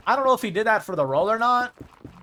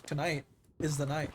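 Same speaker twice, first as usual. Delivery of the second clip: delayed delivery; 5 semitones lower, 6 dB quieter than usual. Retold or imitated. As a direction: drag out tonight is the night with a beat of delay. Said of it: "says it with, like, a little bit of delay in it".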